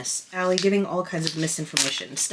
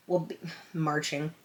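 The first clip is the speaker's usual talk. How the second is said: muttered softer, catching the slip as she says "marching"; dropped misreading; 7 dB quieter than usual. Real, not acted. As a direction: trail off quietly on the wrong word "marching". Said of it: "will be launching".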